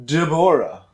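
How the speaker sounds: "Deborah" as duh-BOR-uh; unusual name pronunciation. Retold or imitated. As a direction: stress the middle of "Deborah": de-BOR-ah.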